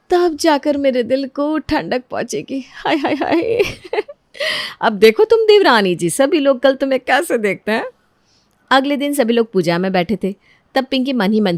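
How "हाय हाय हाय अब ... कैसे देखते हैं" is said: gloating laugh. Acted. Scheming sister-in-law gloats alone.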